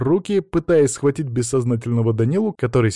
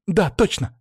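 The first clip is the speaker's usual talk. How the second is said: sudden realization; 8 semitones higher, slower than usual. A narrator's reading. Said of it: "опомнилась Алиса".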